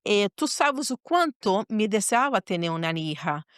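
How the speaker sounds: grave bargaining prayer, pausing between phrases; retold earnest prayer. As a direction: pray it solemnly, weighing each phrase. Retold difficult prayer to God.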